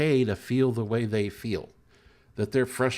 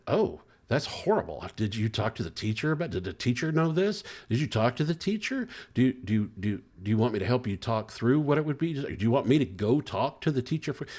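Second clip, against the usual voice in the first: eager fixer dad; 2 semitones higher than usual. Retold or imitated. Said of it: "I said".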